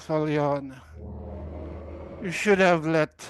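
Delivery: loud, condescending and scornful; arrogant voice. Acted. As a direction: talk down to him, superior. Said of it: "more toned with arrogance".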